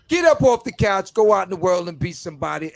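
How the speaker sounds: rousing catchphrase. Real, not acted. Show sign-off catchphrase.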